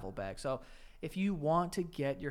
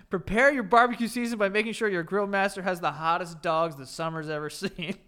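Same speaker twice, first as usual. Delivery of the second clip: hype ad read; 3 semitones higher, 7 dB louder than usual. Acted. Hyping the ad read.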